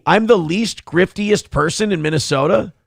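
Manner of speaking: rising, disbelieving question; mock surprised. Real, not acted. Streamer repeats a chat compliment, amused disbelief. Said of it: "Least grifty".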